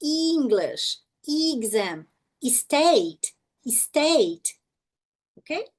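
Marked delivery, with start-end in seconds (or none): 0.0-4.6 "English, exam, state, state" said slowly, one by one; spaced-out demo words; long E examples. Shown as a demonstration. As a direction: stretch the first vowels of "English, exam". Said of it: "Som longo da letra E".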